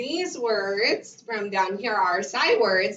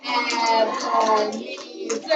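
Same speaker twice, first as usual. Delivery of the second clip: slow, one beat per syllable; clapped syllables; much slower than usual. Shown as a demonstration. Teacher to the class, clapping out the name slowly. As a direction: chop the name into slow claps. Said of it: "I'm gonna count it".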